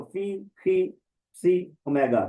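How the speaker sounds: फी and सी rhyming with "see"; "ee"-ending letter names. Shown as a demonstration. Teacher gives the alternative pronunciation, "ee" endings on फी, सी. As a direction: end फी, सी in a long "ee". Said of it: "फी भी बोलते हैं इसको".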